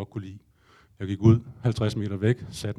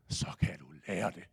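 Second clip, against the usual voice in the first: calm shaman; 6 semitones lower, 12 dB quieter than usual. Retold or imitated. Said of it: "Og så sagde han".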